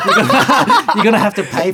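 laughing, words breaking up; high laughing through the words. Real, not acted. Laughing while quoting receptionist.

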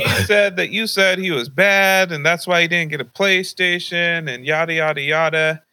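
hint of an upset grandmother; grandma scolding. Grandma confronting dad again.

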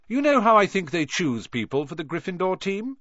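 high, loud sneering question; loud taunt. Acted. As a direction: call it out to be heard. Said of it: "said Malfoy loudly".

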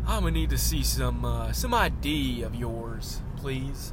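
put-on officious guard, stretching the request; Hank Hill. Gate guard asks visitor for ID, Hank Hill impression. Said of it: "all the people at the gates are Hank Hill".

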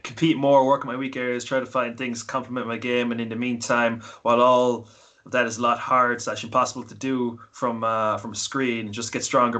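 low, even read-out of a message; reading aloud. Acted. Reading a listener's message to the podcast, low read-aloud voice.

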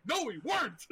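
high-pitched squabbling denial, half laughing; mock protest. Friend retelling his side of the spat, mock protesting. Retold quarrel between friends.

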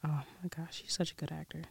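soft, whispered to herself; whispered aside. Real, not acted. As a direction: murmur it under your breath. Whispering to herself while searching.

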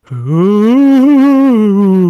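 slow, rising spooky taunt. Pretend. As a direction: drawl it like a menacing ghost. Reads submission in put-on voice.

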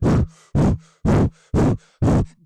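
fast forceful breaths through the nose; rapid nasal breath pumps. Shown as a demonstration. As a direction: pump quick breaths out the nose. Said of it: "Can you show us?".

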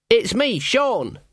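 put-on timid young lad knocking at a door; nervous boy. Sean calling through the door to Magrat, nervous and high.

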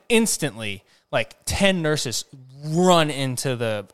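normal talking voice

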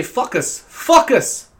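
put-on FOCUS said as "fuck us", high, German-accented. German teacher saying focus, mispronounced in accent. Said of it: "she used to say".

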